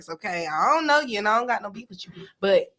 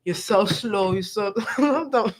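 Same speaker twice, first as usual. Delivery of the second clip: mock New York accent; 4 semitones lower, slower than usual. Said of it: "Wait, wrong accent".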